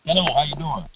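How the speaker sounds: muffled bad phone line; distant, cutting-out cell call; driving into a tunnel. Real, not acted. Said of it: "you sound like you're in a".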